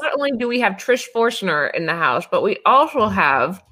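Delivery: talking through chocolate; words round a mouthful; mouth full. Real, not acted. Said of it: "sorry, I'm eating chocolate".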